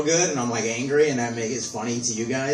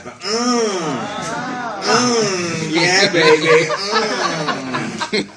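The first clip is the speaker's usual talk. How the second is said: mock seductive; 7 semitones higher, 4 dB louder, much slower than usual. Seductive hum.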